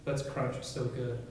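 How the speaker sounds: measured poetry reading, each phrase falling away; poem recitation. Acted. Poet addresses a lover in his airport poem, poem recitation. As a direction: read it line by line, with pauses between phrases.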